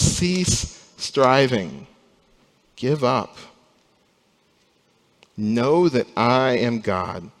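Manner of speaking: slow, steady voice of God; calm divine command. Acted. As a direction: let each phrase land slowly and gently. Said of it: "And God says".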